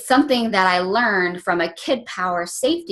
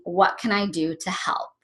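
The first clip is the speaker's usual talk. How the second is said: put-on whispered child; 5 dB quieter than usual. Son offers help, whispered.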